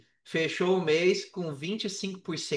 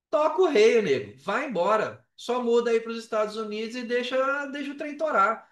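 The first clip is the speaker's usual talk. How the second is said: pumped-up push; 5 semitones higher than usual. Retold or imitated. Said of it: "Aí eu falei assim".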